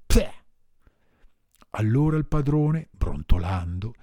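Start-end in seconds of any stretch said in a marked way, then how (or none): 0.1-0.3 spitting out. Acted. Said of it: "la risputò".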